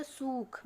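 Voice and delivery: सूख with a long drawn-out ऊ; long u shown. Shown as a demonstration. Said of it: "ऊ की मात्रा लग गई अगर सा में". (सूख में लंबा ऊ खींचकर)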